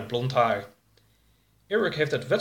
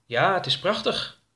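higher-pitched admiring voice; higher, admiring lilt; 7 semitones higher than usual. Acted. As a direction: say it full of admiration. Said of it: "zei Mary vol bewondering".

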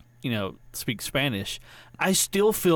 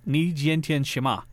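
put-on learner's American-accented Chinese; wrong accent in Chinese; 2 semitones higher than usual. Asking how are you today, American-accented Chinese. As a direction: say "Ni jian tian shima" slowly, in an American accent. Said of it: "I wasn't saying it with the right accent".

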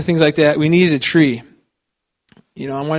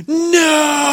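put-on child's loud refusal; 12 semitones higher, 4 dB louder than usual. Daughter refuses tiny tree.

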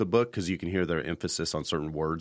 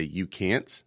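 "You can't," posed as a question. Retold or imitated. Dad querying his daughter's claim, "You can't," said questioningly. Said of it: "in a questioning manner".

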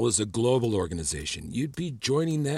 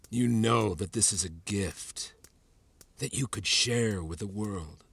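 slow, lower-pitched persuasion; gentle coaxing; 4 semitones lower, 4 dB quieter, slower than usual. Acted. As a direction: coax a reluctant student, slowly and softly. Professor coaxes reluctant student into testing.

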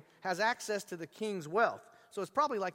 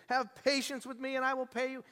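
higher, imploring plea; pleading slave; 6 semitones higher than usual. Retold or imitated. Fellow slave pleading with the forgiven slave. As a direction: beg for mercy on your knees. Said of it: "fell down and pleaded".

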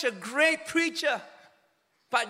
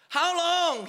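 crying out; 5 semitones higher than usual. Retold or imitated. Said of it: "he cried out".

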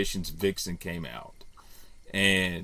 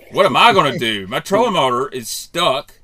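fast, loud, higher retold yell; retold angry outburst; 6 semitones higher, 9 dB louder than usual. Angler retells yelling at his co-angler, loud and fast. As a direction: snap at the useless partner, fast. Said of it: "And I just lost it".

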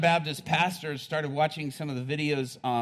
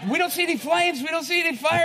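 puzzled firemen; 13 semitones higher, 6 dB louder than usual. Retold or imitated. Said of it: "And they're like".

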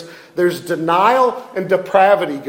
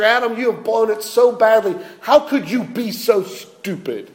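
mock scolding lecture; 5 semitones higher than usual. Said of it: "a big old lecture".

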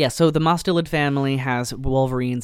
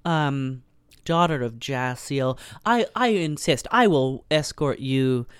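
oily guildmaster; slower than usual. Retold or imitated. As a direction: lay on the fake courtesy, drawn out. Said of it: "Guildmaster Kilp is like".

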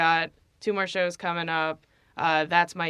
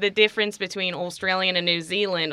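demonstrating an Australian accent; 3 dB louder than usual. Shown as a demonstration. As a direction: keep talking in Australian. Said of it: "I guess I'll do it in Australian".

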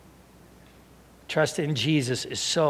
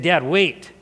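"Dad, wait" measured, with a lift on "wait"; composed, deliberate request; earnest interruption. Retold or imitated. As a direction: ask Dad seriously to hold on. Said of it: "he said it like that".

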